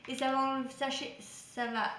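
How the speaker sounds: fumbling words with broken-off false starts; real muddled, halting delivery; tongue-tied stumble. Real, not acted. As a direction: trip over the phrase and restart it. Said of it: "j'ai du mal à parler aujourd'hui".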